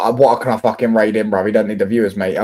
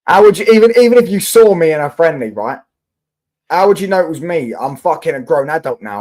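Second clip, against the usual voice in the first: raised, higher voice, incredulous; indignant; 6 semitones higher, 6 dB louder than usual. Real, not acted. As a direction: push back hard, how could you possibly know. Indignant at chat's accusation.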